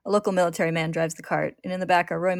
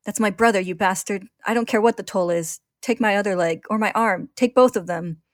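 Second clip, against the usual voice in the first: higher, louder, raging at the enemy; furious defiance; 3 semitones higher, 5 dB louder than usual. Acted. Ed offering his limbs to get his brother back, furious. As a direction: throw every word as a challenge. Ed defies the Truth.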